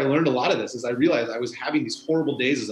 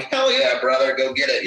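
mock cheering; 4 dB louder than usual. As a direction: cheer on a cyclist like an enthusiastic driver. Imagined cheering driver.

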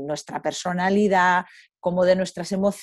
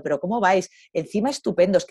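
loud, cheering "bravo"; woman cheering on the rangers fining her; mock praise; 4 dB louder than usual. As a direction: applaud them gleefully. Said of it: "dándoles la enhorabuena".

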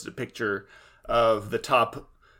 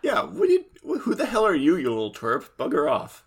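mock bully; 3 semitones higher than usual. Voicing the bully mockingly.

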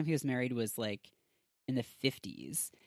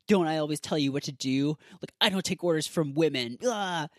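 louder, indignant retold outburst; mock flipping out; 3 semitones higher, 5 dB louder than usual. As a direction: imitate an angry man losing it. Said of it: "Ted's, like, flipping out".

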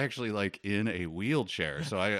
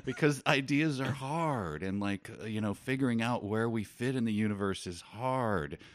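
laid-back dude voice; 5 semitones higher than usual. Retold or imitated. Mocking the chill peacemaker.

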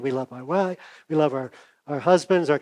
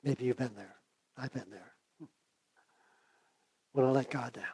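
real fading voice, much softer; losing voice; 3 semitones lower, 14 dB quieter than usual. Real, not acted. Preacher confesses letting God down, voice giving out. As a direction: barely get it out as your voice gives way. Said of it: "Losing my voice".

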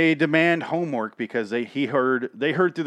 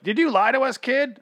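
mock accusing monster; 12 semitones higher than usual.

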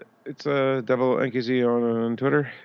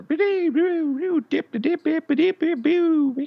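scatted funky music; 3 dB louder than usual. Retold or imitated.

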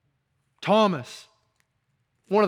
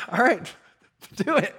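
laughing permission; 7 semitones higher than usual. Retold or imitated. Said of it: "he's like".

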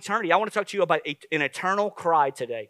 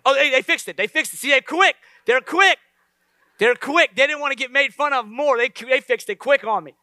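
amused excitement; 6 semitones higher, 4 dB louder than usual. Real, not acted. Congregation laughing at screen fix.

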